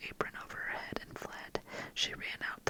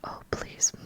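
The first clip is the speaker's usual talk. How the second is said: tearful plea; 7 dB louder than usual. Acted. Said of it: "burst into fresh tears".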